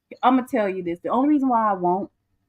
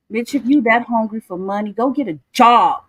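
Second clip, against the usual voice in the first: louder angry telling-off; 5 dB louder than usual. Real, not acted. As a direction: snap it at her, fed up. Insulting woman streaming live.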